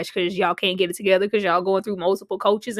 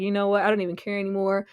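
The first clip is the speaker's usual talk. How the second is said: worn-out shrug; 2 semitones lower, faster than usual. Retold or imitated. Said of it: "Doctor Buss is just so worn out".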